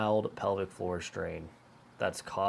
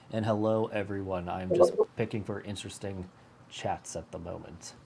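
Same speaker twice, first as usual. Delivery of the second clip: stuffy, blocked-nose voice; congested. Real, not acted. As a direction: speak through a congested nose. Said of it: "I sound like a congested dog".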